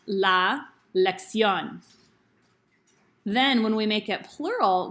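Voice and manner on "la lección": lección stressed on its last syllable; stress on final syllable. Shown as a demonstration. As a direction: say lección with the weight on "ción". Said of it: "we know it's pronounced".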